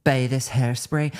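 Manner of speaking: slow line slipping into Irish; slightly Irish accent. Retold or imitated. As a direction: let a bit of Irish creep in. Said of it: "went a bit Irish at the end".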